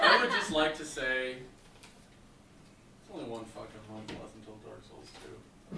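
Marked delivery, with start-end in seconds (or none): 1.3-5.8 mock angsty emo whine; whiny emo teen. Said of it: "You can hear the angst resonating in his poor voice".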